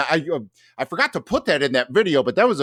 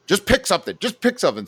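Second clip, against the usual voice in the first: impatient friend; 7 semitones higher, faster than usual. Retold or imitated. Agitated friend quoted.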